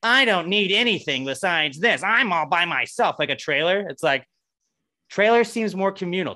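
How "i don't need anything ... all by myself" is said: voicing a tiny house. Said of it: "A tiny house is like".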